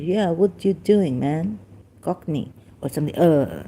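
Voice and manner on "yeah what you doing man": rough attempt at a British accent; lightly put-on British accent, drawn out. Shown as a demonstration. Speaker showing listeners his changing accents, attempted British. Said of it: "sometimes little bit British".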